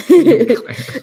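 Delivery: squeaky laughing echo of the question. Real, not acted. Wife laughing while mocking her husband's question. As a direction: tease him by parroting it through laughter.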